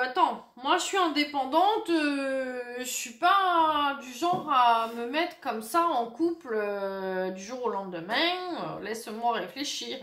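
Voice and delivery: put-on playful southern French accent. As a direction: slip into a mock southern French accent, drawing out the endings. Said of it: "excusez-moi pour l'accent, ça m'arrive souvent de le faire".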